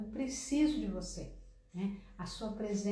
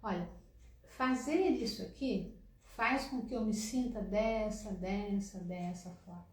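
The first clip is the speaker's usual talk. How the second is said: right calm way. Shown as a demonstration. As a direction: gently say how it makes you feel. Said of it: "não, você vai dizer".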